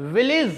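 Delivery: विलेज said with the first vowel short, as vill-ij; careful teacher model of विलेज; correct pronunciation. Shown as a demonstration. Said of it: "the word is correctly pronounced as village".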